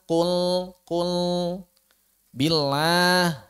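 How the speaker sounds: "kul" and "billah" sent through the nose; nasal mistake. Shown as a demonstration. Teacher demonstrating nasal lam mistakes. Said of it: "itu kerongga hidung".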